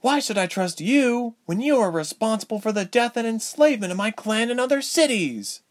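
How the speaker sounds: high-pitched, agitated heroine's outburst; rising indignant cry, very high; crying out in accusation. A narrator's reading. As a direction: hurl accusations in a high girl's voice. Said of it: "Ilse cried".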